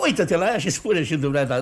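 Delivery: laughing through the words; mocking laughter. Father ridicules daughter to matchmaker.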